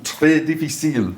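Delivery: lightly French-accented words; French phrase. Shown as a demonstration. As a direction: slip into French. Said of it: "The language is".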